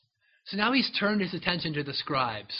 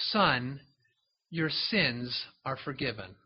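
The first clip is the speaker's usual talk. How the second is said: tender forgiveness; 5 semitones lower, 3 dB quieter, slower than usual. Acted. Jesus forgives paralyzed man.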